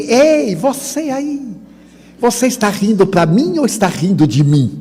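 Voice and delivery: high-pitched accusing call; retold indignant challenge. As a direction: imitate an offended stranger demanding an answer. Retold angry man challenging him.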